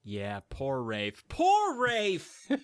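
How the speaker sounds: hammed-up grief for Rafe; mock lament. Mock mourning rising to cry.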